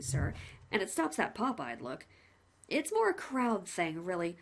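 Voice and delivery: lightly voiced chatty executioner; a hint of a friendly hangman; the hangman greeting the condemned man, cheerfully; cheery hangman. Hangman speaks.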